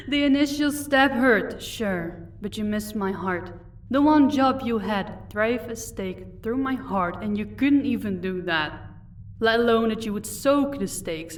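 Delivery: contemptuous taunting vampire. Acted. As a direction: rub the failure in. Vampire taunts failed assassin.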